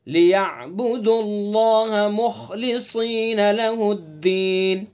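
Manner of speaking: slow chanted verse, "مخلصین" with a heavy kha; slow melodic Quran recital; tajweed recitation. Shown as a demonstration. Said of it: "خا کا مخرج ادنائے حلق".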